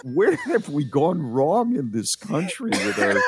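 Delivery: indignant. Real, not acted. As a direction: get indignant, voice going up. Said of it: "When he gets indignant".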